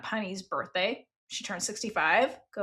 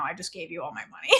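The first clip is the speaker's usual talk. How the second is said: laughing through it; 5 semitones lower, 10 dB quieter, faster than usual. Real, not acted. Retelling Fi's quip, laughing.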